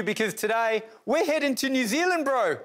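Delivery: put-on playful, high-pitched Kiwi accent. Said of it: "Put your best Kiwi accent on".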